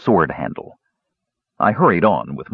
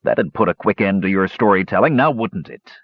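sneering. Acted. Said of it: "he sneered".

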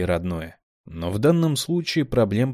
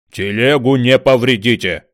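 louder warning; alarmed shout; 3 semitones higher, 9 dB louder than usual. A narrator's reading. Pole worried about the cart, loud shout. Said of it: "вскинулся шест".

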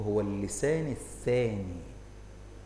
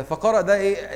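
loud quiz; 7 semitones higher, 7 dB louder than usual. Real, not acted. Teacher quizzes class loudly.

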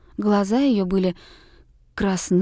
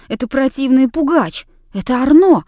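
loud, higher, fiery outburst; ardent exclamation; 4 semitones higher, 6 dB louder than usual. Acted. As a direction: blurt it out hotly. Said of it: "пылко воскликнула княжна". (княжна пылко и громко восклицает)

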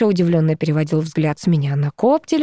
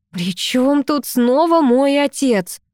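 slow, pointed and sharp; angry; 7 semitones higher, slower than usual. Acted. Girl snaps at ex over her father, slow and angry. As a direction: bite off each word in anger. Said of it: "разозлилась я".

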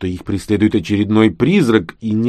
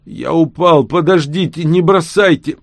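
high, louder wheezing plea; desperate old plea; 9 semitones higher, 5 dB louder than usual. A narrator's reading. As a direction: beg not to be left behind. Old-voiced Max pleading. (отчаянная стариковская мольба)

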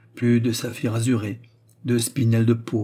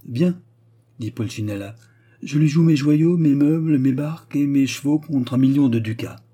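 louder, higher, reckless bet; defiant raised voice; 3 semitones higher, 4 dB louder than usual. Acted. Pulcinella betting his jewels against the gentleman, loud. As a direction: throw it all on the table. Ruined count stakes everything.

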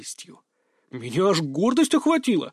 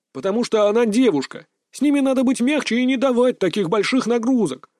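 firm declaration; 7 semitones higher, 4 dB louder than usual. A narrator's reading. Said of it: "заявил он твёрдо".

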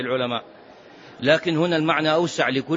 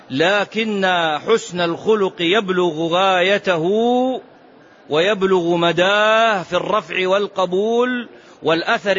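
slow, deliberate declamation with drawn-out endings; formal intoned reading; 2 semitones higher, slower than usual. Real, not acted. Teacher declaiming the chapter meaning to students, formal intoned reading. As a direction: pronounce it like a chapter heading.

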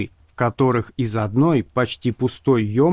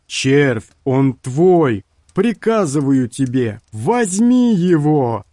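commanding sorcerer; 3 semitones higher, 4 dB louder, slower than usual. A narrator's reading.

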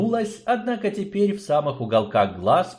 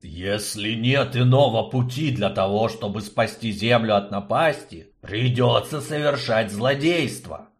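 through gritted teeth. Acted. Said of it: "процедил сквозь зубы губитель".

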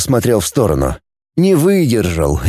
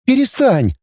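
higher, mild cry of stop; girl Dana crying out; 13 semitones higher than usual. A narrator's reading. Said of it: "вскрикнула Дана". (девушка вскрикивает, выше, негромко)

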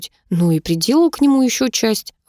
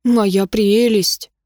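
slow, drawn-out hiss of moya prelest; a slow mock Gollum croon; much slower than usual. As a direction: croon it slowly like a creature hugging its treasure. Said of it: "как кольцо для горлума".

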